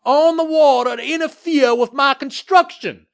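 high, slow, furious shouting; furious screaming. A narrator's reading. Developer screaming at the mayor about the galleon, furious. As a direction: scream each word out in outrage. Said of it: "screamed at Mayor".

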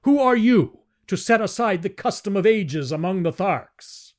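put-on an elder defending old custom indignantly; indignant challenge. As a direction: challenge the Jedak's right. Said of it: "exclaimed Lorcas Potomo".

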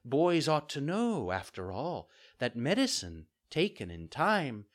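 slow motherly fairy voice; fairy, gently scolding. Acted. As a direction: admonish a child patiently. Fairy figure lectures.

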